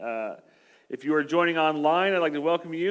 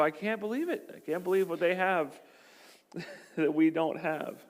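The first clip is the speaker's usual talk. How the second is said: mock amazement; 3 semitones higher than usual. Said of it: "we just look at them and go".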